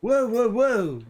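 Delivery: drawn-out, high startled whoa; high, stretched real whoa at a close call. Real, not acted. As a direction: yelp in real alarm at a near miss.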